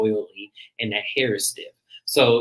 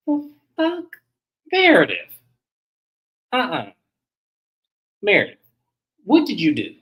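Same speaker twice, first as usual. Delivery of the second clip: much higher, squealing "the fuck?" in disbelief; a high, incredulous call to Meredith; shocked disbelief; 9 semitones higher, 3 dB louder than usual. Retold or imitated. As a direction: react like you can't believe what you just saw. Retold shocked reaction to Brooks.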